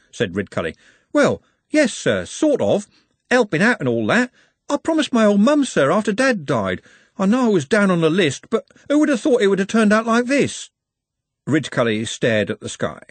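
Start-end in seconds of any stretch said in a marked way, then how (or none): 1.1-10.7 high, agitated pleading voice; Trev. A narrator's reading. Trev explains his promise to the Arch-Chancellor, high agitated pleading. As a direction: protest helplessly, pitched well up and loud.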